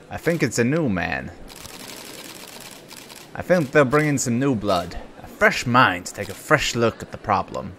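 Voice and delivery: lightly voiced defensive cop; cop's voice. Cop answering the press, a lightly acted cop voice. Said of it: "I'm doing the cop's voice".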